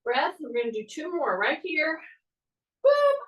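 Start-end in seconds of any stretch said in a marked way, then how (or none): 2.8-3.2 sudden high, loud "boom"; excited shout. Real, not acted. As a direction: pop the word out like a cheer. Coach punctuating a rep.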